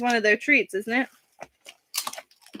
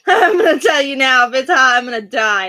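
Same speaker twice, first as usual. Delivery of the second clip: laughing; 4 dB louder than usual. Real, not acted.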